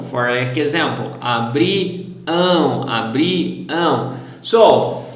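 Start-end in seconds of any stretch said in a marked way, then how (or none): 1.2-4.2 "abriam" with a long nasal ending; stressed last syllable. Shown as a demonstration. Teacher repeats "abriam" as an example, stressed ending. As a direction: split "abriam" after "bri" and hold the "am". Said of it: "Remember to stress the last syllable".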